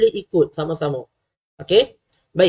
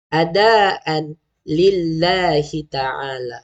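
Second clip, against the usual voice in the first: drawn-out, chanted Arabic intention; slow niat recitation; much slower than usual. Shown as a demonstration. Teacher reciting the niat to parents, slow and chanted. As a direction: recite each word slowly for parents to copy. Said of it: "macam mana sebutan dia?".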